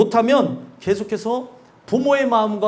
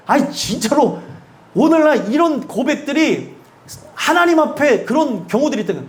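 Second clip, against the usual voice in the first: usual speaking voice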